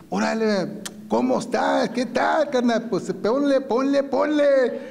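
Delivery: put-on high-pitched Spanish hail to old buddies; animated convict-to-convict hello; excited greeting. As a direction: call out high, drawing out the last word.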